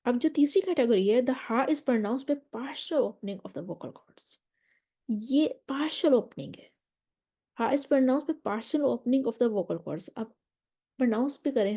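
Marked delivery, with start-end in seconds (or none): 1.2-4.4 slow, deliberate reading of a definition; slow text reading. Acted. Teacher reads a definition to students, slowly and carefully. 7.6-10.1 slow reading. Acted. Reads English slowly.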